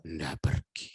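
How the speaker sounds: low, measured reply; a touch of solemn tenderness; retold husband reassuring. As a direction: answer low and steady, playing the devoted husband. Husband answers wife's question.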